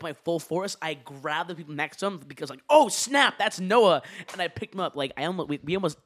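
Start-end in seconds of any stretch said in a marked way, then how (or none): 2.7-4.0 loud, high oh snap; startled recognition mid-swing; sudden realization. Retold or imitated. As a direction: catch yourself just in time. Recognizing friend mid-stomp.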